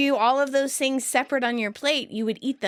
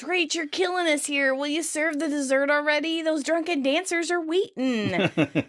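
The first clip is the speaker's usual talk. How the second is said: exasperated scolding, pitched higher; 6 semitones higher than usual. Retold or imitated. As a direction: nag her to get on with it, voice raised in pitch. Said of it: "Joey scolds".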